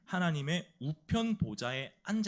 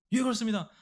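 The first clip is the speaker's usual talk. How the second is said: raised military yes-sir; new recruit's answer; 7 semitones higher, 4 dB louder than usual. Acted. New private answering jealous seniors, in a raised voice.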